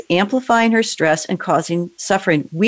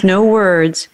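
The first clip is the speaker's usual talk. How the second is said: whisper. Real, not acted. Coach guiding emotional release.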